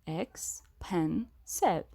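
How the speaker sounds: Expensive said slowly, syllable by syllable; counting syllables. Shown as a demonstration. Teacher to class, counting the syllables of Expensive slowly. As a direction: stretch out Expensive so each beat is heard. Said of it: "Let's count them".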